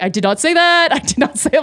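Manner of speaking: high-pitched mock-panicked denial; retold flustered protest; protesting innocence. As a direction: plead it upward to the onlookers. Protesting innocence before staring bar.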